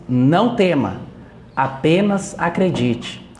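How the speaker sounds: slow, measured quoted reassurance; solemn counsel. Retold or imitated. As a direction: let the counsel settle, word by word. Preacher repeats Jesus's counsel slowly. (conselho solene e pausado)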